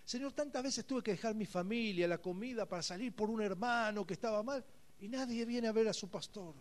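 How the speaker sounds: soft, near-tearful plea to God; a lightly voiced weeping plea; tearful prayer. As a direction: pray as if close to tears. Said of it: "me puse a llorar".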